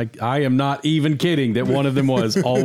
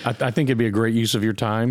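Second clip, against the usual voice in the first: sarcastic. Real, not acted. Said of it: "That, that felt like sarcasm".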